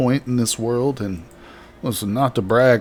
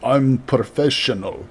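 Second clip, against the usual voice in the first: put-on Russian accent. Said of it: "Thick Russian accent".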